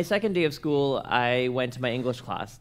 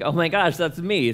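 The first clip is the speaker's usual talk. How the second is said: raised, panicked gasp; mock panic; 4 semitones higher, 4 dB louder than usual. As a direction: realize you're the target, alarmed. Panicked realization.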